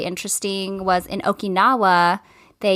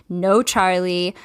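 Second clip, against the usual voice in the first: stern; 2 semitones lower, much slower than usual. Retold or imitated. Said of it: "say it in a stern way".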